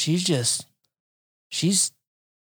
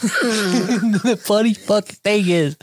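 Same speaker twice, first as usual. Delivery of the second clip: laughing; 2 semitones higher, slower than usual. Real, not acted. Laughing while starting point.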